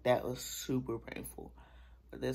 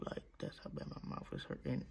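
whisper; 6 dB quieter than usual. Real, not acted. Sore mouth, whispered aside.

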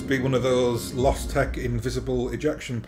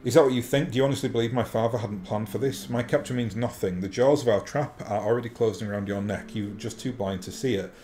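mustache twirling villain. Acted. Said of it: "You talk like a cartoon villain".

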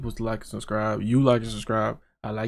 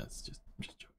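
near whisper; 22 dB quieter, faster than usual. Real, not acted. Trailing off after a joke threat.

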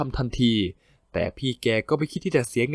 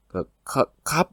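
nervous stammer; slower than usual. Acted. Employee stammering nervously at his stern boss. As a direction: swallow the word, unsure. Nervous under boss's stare.

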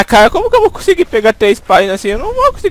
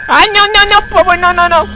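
very high squealing panic, words repeated; terrified babble, thinning as it repeats; panicked pleading. Real, not acted. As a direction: beg frantically in a squeaky high voice. Panics as game monster pulls him.

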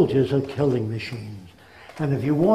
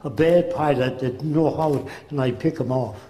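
put-on German accent. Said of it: "He said".

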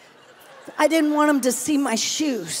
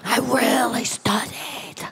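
whispered, slower; whispered aside; 3 semitones lower, slower than usual. Real, not acted. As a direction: breathe it out as a sheepish whisper. Confession to God.

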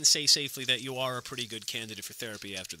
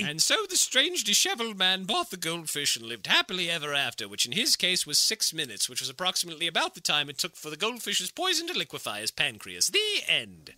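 storybook narration; 2 semitones higher than usual. A narrator's reading.

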